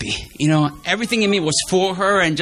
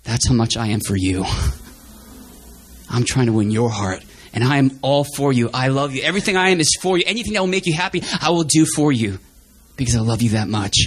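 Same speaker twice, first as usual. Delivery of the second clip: God's loving voice; 5 semitones lower than usual. Retold or imitated. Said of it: "I felt God was saying".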